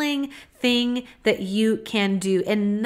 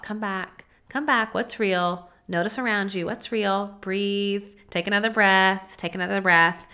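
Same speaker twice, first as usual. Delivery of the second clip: gentle self-talk. Pretend. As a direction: coax yourself back to the moment. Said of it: "repeat to yourself".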